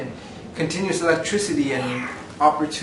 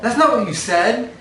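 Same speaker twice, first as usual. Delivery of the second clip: laughing; 8 semitones higher, 6 dB louder than usual. Real, not acted. Catching kid's changed answer.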